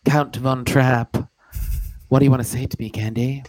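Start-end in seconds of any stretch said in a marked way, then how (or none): 0.1-1.2 lightly voiced stern father, slow and grand; a hint of an aristocratic father; Count Von Trapp. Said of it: "You sounded just like my papa".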